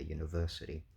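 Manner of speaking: "university" with main stress on VERSE; "university", lighter first syllable, primary stress on third. Shown as a demonstration. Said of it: "primary stress is on verse".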